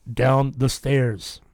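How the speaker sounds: slow, drawn-out machine voice; stretched, measured spirit-box message. Retold or imitated. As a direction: intone it slowly like a ghostly voice box. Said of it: "the machine goes".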